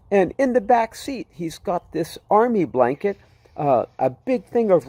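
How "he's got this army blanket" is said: ordinary delivery, nothing marked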